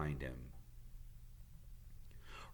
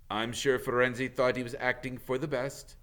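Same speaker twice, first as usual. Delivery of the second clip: gloomy; 5 semitones higher, 5 dB louder than usual. A narrator's reading. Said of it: "he said in a gloomy voice".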